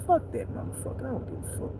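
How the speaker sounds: whispered, dismissive aside; whispered thought. Retold or imitated. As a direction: breathe it out under your breath.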